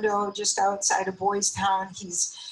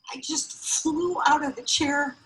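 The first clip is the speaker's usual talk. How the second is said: normal talking voice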